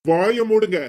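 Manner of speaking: loud, sharp command to shut up; angry order. Acted. A brother-in-law shouting at his in-law to shut up. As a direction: cut him off with a loud order.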